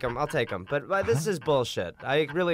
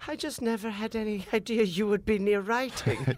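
high, astonished mother voice; mock mom; 8 semitones higher than usual. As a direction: marvel like a stunned mother. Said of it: "she was so like".

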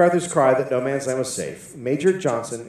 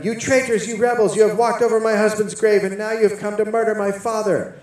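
retold yell; 9 semitones higher than usual. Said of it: "She yelled at them".

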